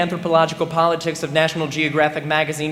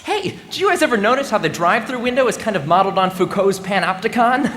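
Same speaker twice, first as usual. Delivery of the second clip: higher, quick, chatty aside; oblivious intellectual; 4 semitones higher than usual. Acted. Student to friends in the car, obliviously nerdy. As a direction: toss it out as a casual observation. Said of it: "a sentence like this slips out".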